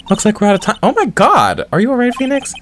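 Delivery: high, alarmed cry; alarmed character voice. Acted. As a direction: react in sudden alarm. Voicing character in panic.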